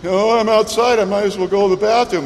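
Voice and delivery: a hint of a dog's dawning idea; puppy realizing. Puppy realizing he's outside, lightly voiced. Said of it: "then he'll realize he's outside".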